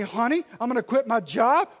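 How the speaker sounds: loud, brash declaration of a rash plan; blunt announcement. Pretend. Husband springing quitting his job on his wife, brash and loud. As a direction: blurt it out like it's already decided.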